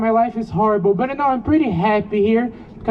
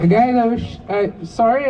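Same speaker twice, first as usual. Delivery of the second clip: short of breath. Real, not acted. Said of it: "sometimes I get short of breath".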